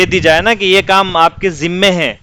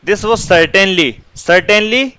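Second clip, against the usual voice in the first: slow dictation; 3 semitones higher, much slower than usual. Shown as a demonstration. Dictating English sentence slowly.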